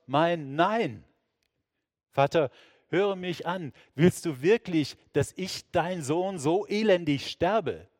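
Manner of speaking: high, loud desperate prayer; anguished cry. Acted. Jesus in Gethsemane crying out to his father. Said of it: "In mir schreit es".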